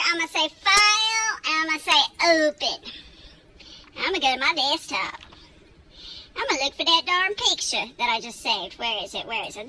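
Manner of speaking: playful, hammed-up Texan twang; exaggerated Texan accent. Host hunting for a saved picture, exaggerated Texan accent. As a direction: talk through the steps like an overdone Texan. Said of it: "over-exaggerating my Texan accent".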